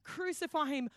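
a hint of a yelling mob; mock crowd yell. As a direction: call it out like the crowd. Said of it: "everyone's yelling out".

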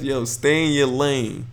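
slow, lightly voiced cool dad line; slow, cool LeVar imitation. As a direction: drawl it out like an unbothered dad. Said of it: "He told Cass".

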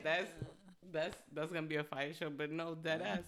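normal talking voice

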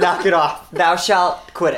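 solemn mock commandment; biblical voice. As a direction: preach it like scripture.

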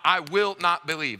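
"I will not believe" with weight on WILL NOT; emphasis on NOT. Shown as a demonstration. Preacher showing the double emphasis in Greek, stressing NOT. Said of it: "double emphasis on not".

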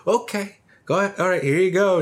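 very high voice of a baffled spoon seller; spoon salesman voice. Retold or imitated. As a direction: hand it over like a bright, clueless shopkeeper. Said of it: "And he's like".

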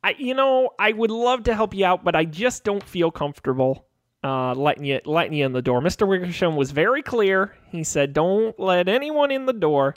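lightly voiced reluctant underling; a hint of an awkward young intern; apologetic intern guard. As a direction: politely refuse while hedging.

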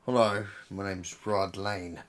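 lightly put-on British accent, unhurried; Hugh Grant British. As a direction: slowly introduce yourself as a polite, bumbling Englishman. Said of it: "a movie with Hugh Grant as Rod Lane".

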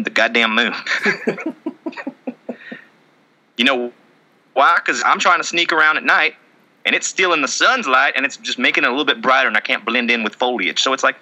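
loose impression of a Southern good old boy; hint of a backwoods Southern militia guy; Colby Rasmus. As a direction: play a rambling Southern woodsman, lightly. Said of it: "I'm Colby Rasmus".

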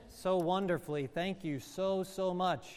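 tender thanks. Real, not acted. Thanking the children softly.

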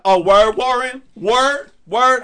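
high, loud mock reproach; Lacey. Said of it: "can't you hear Lacey's voice".

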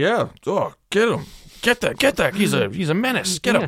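high excited egging-on voice; mock bystander cheering. Mocking a bystander who urges police to shoot, high and eager.

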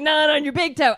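playful loud fairy retort; bright mock fairy snap; fairy vampire voice. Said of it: "She's like".

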